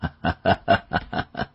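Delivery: put-on big old man's ha-ha laugh; amused hearty laughter. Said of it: "药来哈哈大笑".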